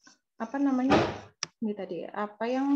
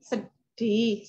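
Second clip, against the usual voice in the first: slow, gentle naming of the feeling; lowered calm intonation; much slower than usual. Shown as a demonstration. Parent naming an upset child's sadness, slow and soothing. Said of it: "intonasinya kalau bisa diturunin".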